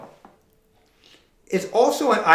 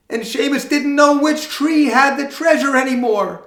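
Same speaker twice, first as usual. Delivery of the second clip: dramatic storytelling; 10 semitones higher than usual. A narrator's reading. Storyteller voicing Seamus's dismay.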